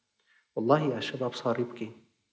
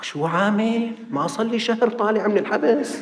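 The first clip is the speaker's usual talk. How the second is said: much higher and louder, indignant; startled outburst at a sheikh's words; alarmed protest; 7 semitones higher, 4 dB louder than usual. Retold or imitated. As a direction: snap back in alarm, just out of jail. Man panics at being wanted.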